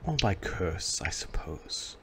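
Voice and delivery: slow, measured ancient gorgon; ominous statue voice. Acted. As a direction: speak as a knowing stone oracle.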